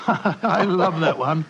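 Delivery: slow words through a laugh. Acted. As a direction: chuckle fondly while speaking. Watson laughs at old disguise.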